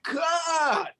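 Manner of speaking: high called cut. Retold or imitated. Director stopping the take, calling out cut. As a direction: call cut across the set.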